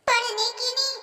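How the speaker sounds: quiet worried confession. Acted. Confessing no preparation.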